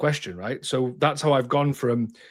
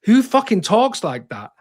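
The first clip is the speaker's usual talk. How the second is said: higher, louder, fed up; exasperated outburst; 9 semitones higher, 5 dB louder than usual. Real, not acted. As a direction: scoff at it out loud.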